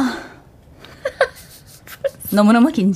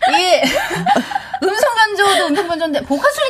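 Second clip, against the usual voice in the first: laughing excitedly; 11 semitones higher than usual. Real, not acted. Laughing excitedly after the trick.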